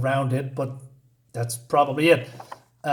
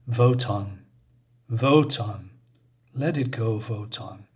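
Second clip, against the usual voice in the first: lower, eerie calling of a name; ghostly prophetess voice; 5 semitones lower than usual. Acted. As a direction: call to him like a distant oracle. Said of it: "So he hears the voice".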